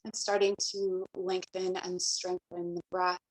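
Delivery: calm, even meditation voice with long pauses; guided meditation. Acted. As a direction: guide them gently into the breath, leaving space between phrases. Leads breathing meditation and invocation.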